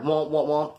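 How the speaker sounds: womping noise in rhythm; repeated spoken wobble sounds; imitated wobbling ladder. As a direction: mimic a flimsy ladder flexing. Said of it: "climbing the ladder was like".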